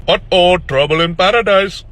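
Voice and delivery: put-on teasing doctor with an Indian accent. Doctor ribbing a friend about his girlfriend, Indian accent. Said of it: "I use an Indian accent in the video".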